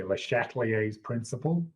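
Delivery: "Le Chatelier's principle" with an English-style ending; Americanised French name. Shown as a demonstration. Teacher showing how Americans say the French name, Americanised. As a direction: say "Le Chatelier's principle" as a non-French speaker would. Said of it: "Americans who can't s-, pronounce French".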